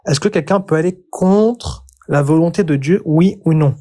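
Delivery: slow, deliberate repeat. Real, not acted. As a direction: repeat it slowly and pointedly. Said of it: "Je repose la question encore une fois".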